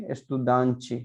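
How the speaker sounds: एस्तुदांची with the Brazilian chi ending; Brazilian pronunciation. Shown as a demonstration. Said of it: "क्या पढ़ते हैं वो".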